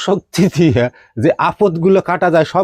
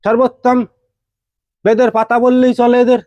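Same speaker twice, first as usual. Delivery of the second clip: fervent praise; 11 semitones higher than usual. Acted.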